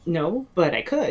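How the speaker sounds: slow, with a laugh in the voice; laughing reply. Retold or imitated. Answering John's anthology email with a joking laugh. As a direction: tease it out with a chuckle.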